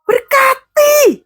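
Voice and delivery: very high, drawn-out call; exhorting cry. Real, not acted. Preacher urges parents at school drop-off, high exhorting cry.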